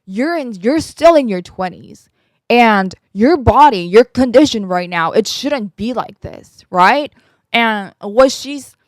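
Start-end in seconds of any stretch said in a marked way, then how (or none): 0.0-7.1 mildly exasperated retold scolding; frustrated doctor. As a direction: imitate a doctor fed up with a young patient. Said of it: "she was so frustrated with me".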